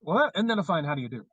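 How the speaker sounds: Mid-Atlantic accent. Shown as a demonstration. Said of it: "I bust into one every once in a while".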